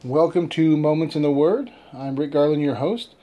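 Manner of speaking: echoing room acoustics; echoey room. Real, not acted. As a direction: sounds like a different location. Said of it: "if I sound a little, a little bit echoey".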